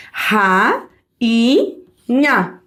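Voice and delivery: RA, I, NHA as separate beats; syllable by syllable. Shown as a demonstration. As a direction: break it into RA... I... NHA with clear pauses. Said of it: "A separação silábica é".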